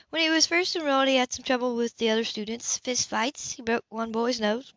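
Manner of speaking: matter-of-fact report; lightly voiced Anna. Female character voice, higher.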